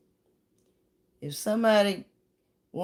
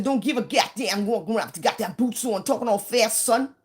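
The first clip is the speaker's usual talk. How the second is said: mock brash northerner; 4 semitones higher than usual. Mocking brash northern newcomers.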